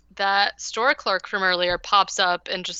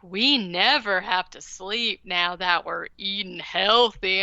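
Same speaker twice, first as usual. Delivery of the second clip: slow, eerie family voice; creepy family line. Retold or imitated. The family telling Jason he never needs sleep, slow and creepy. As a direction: say it slowly, like a creepy cult family. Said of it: "his family says something really creepy".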